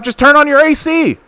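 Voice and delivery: "just turn on your A C" squeaked up high in a sneering mock; mocking impression. Streamer mimics the politician's line in a high mocking voice. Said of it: "these are the things that he actually says out loud".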